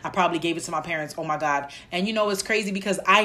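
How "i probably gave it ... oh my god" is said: panicking. Retold or imitated. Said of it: "And then I start panicking".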